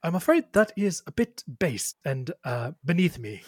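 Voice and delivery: lightly voiced prim musician; Ptolemy. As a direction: decline politely, with hesitant pauses. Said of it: "Ptolemy stops his third cover of a singer's song".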